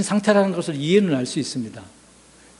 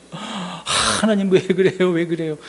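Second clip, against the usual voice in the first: mild whine; 3 semitones higher, slower than usual. Pretend. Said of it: "이렇게 생각할 수도 있잖아요".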